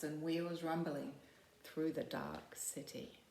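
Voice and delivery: slowing and fading reading; poem reading. Acted. Teacher reading a poem to the class, slowing down. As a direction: let the sirens fade into the dark. Reads fire truck poem.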